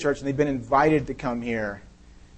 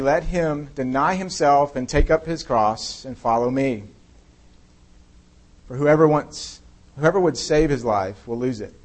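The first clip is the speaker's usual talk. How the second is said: measured, solemn reading of scripture. Acted. Pastor reading scripture to the congregation, solemn and measured. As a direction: read the passage out with weight.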